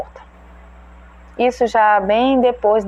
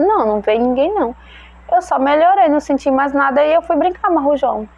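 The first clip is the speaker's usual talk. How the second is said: put-on lightly higher little boy's voice; child's voice; 6 semitones higher than usual. Son explains to his mother, lightly voiced higher child. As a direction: give the boy a light, higher kid voice. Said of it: "Ele disse".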